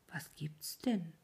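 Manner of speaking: quiet, unhurried question; softly, not alarmed at all; very calm. A narrator's reading. Old man calmly asks his upset wife, quiet and calm. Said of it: "fragte der Alte ganz ruhig".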